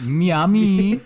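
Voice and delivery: high, loud mock South Asian "Miami"; mock brown accent. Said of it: "That sounded so brown".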